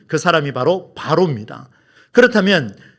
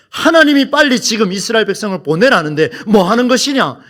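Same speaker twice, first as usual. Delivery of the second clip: higher, mildly indignant rebuke; imagined scolding; 4 semitones higher than usual. Pretend. Moses rebuking Pharaoh over freeing Israel, mock scolding. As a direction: act out a stern telling-off. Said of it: "그러면서 꾸짖으면서".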